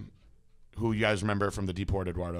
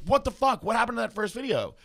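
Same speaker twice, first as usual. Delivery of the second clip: raised, higher mock outrage at the bad video; retold outburst; 12 semitones higher, 6 dB louder than usual. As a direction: replay the shock, louder and higher. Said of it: "I'm like".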